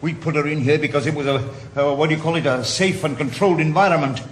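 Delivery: father pushes the blame back hard; angry outburst. Acted.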